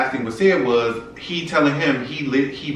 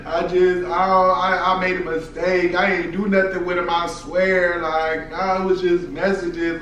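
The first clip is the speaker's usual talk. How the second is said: higher, drawn-out imitation of pleading; mock begging; 4 semitones higher, slower than usual. Boyfriend begging her at the door, mock pleading higher. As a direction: imitate a tearful plea, stretched and high. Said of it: "he just begging".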